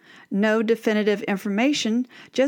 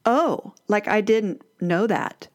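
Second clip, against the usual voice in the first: snarky; slower than usual. Retold or imitated. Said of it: "she says something snarky like".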